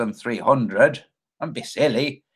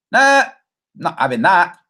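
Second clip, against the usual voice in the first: mock Australian; 3 semitones higher, 4 dB louder than usual. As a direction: bark out a dismissive Aussie refusal in an Australian accent. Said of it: "He's Australian. That's kinda how he talks".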